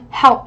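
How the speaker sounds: "help" with the final p released in a puff; "help" ending on an audible burst of air; aspirated ending. Shown as a demonstration. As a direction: pop the last sound of "help". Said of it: "là một âm bật hơi".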